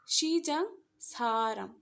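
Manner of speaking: slow, careful Korean syllables; teacher modelling the words slowly for students, syllable by syllable; slow Korean model words. Shown as a demonstration. Teacher pronouncing Korean words slowly for learners. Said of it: "ये दो हमने वो examples देखे हैं".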